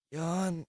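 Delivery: 1 yawn. Real, not acted. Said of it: "that stretch was".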